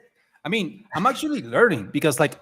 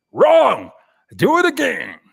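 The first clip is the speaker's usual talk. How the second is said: much higher and louder mock scolding; mock harsh verdict; 10 semitones higher, 8 dB louder than usual. Host playing a harsh portfolio reviewer, loud mock verdict. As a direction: shout down a bad portfolio. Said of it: "telling people".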